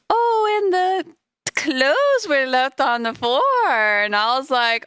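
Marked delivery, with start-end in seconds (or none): 0.1-3.4 much higher, drawn-out mock exclamation; excited imitation. Retelling what she said about the clothes, excited high imitation. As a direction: imitate her excitement, high-pitched and stretched out. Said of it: "when she was like".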